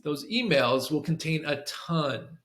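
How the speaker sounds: slow, weighted "Those emails will contain a ton"; bolded emphasis. Shown as a demonstration. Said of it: "we're gonna bold that".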